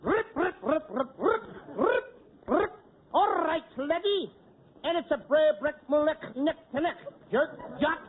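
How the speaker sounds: mock Scottish rolling gibberish; comic faked Scottish sounds. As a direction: warm up a fake Scottish burr. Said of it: "practice up on my Scotch".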